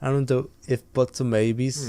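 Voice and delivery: lightly imitated Scouse; Scouse accent. Podcaster parrots the Scouse football fan, imitated Scouse accent. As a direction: have a go at Scouse, mimicking the clip. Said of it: "I'd want the Scouse accent".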